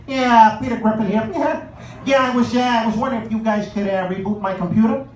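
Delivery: Peter Griffin impression. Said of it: "He'd be like".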